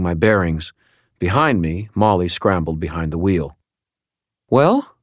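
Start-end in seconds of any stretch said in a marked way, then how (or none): 4.5-5.0 sharp impatient high "Well?"; demanding. A narrator's reading. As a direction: demand an answer now. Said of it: "Murphy demanded".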